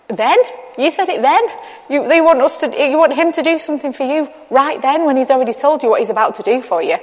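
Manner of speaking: acted-out disbelief, rising questioning pitch; mildly scandalised questioning; incredulous. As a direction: react as if you can't believe their timing. Acting out shocked reaction to disciples.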